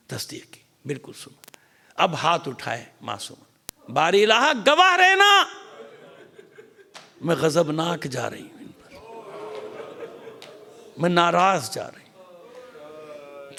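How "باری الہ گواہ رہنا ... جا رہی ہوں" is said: a wailing oath of grievance; anguished cry to God. Acted. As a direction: cry out to heaven then drag the last words. Fatima calls God to witness.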